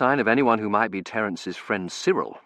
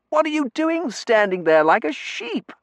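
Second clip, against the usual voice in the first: put-on higher, brisk young man's voice; young Terence, brisk; 5 dB louder than usual. A narrator's reading. Terence hurrying the narrator along, eager young man voice.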